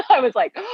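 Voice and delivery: a sharp gasp of realization, mildly acted; retold gasp. Retelling her tears, a mild mock gasp. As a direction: catch the breath as if struck. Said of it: "tears flooded my eyes".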